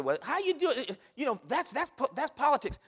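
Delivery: lightly voiced scoffing objector; skeptical churchgoer. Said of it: "And people say".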